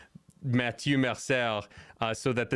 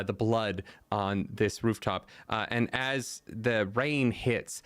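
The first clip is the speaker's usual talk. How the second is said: game master narration. Acted. GM scene narration.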